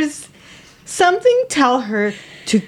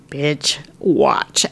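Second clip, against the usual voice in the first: sassy; 6 semitones lower than usual. Acted. Sassy aside to the story.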